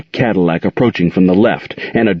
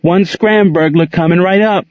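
with a grin; 10 semitones higher than usual. A narrator's reading. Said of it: "with a grin".

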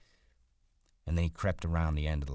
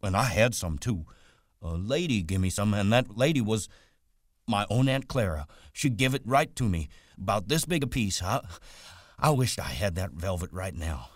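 higher, delighted simple farmhand; eager childlike Lennie figure; 5 semitones higher, 4 dB louder than usual. Acted. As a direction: tell it proudly like an excited big child.

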